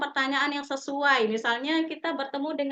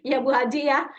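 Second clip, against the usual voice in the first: jawaban ramah; 5 dB louder than usual. Shown as a demonstration. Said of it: "jawabannya yang akhirnya itu".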